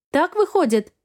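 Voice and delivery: plain reading voice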